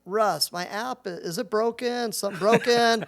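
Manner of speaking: mild mock panic about the app; panicked partner. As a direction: imitate a worried partner calling. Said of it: "He's like".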